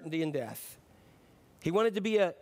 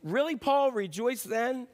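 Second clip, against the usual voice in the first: incredulous; 3 semitones higher, slower than usual. Retold or imitated. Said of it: "Are you saying".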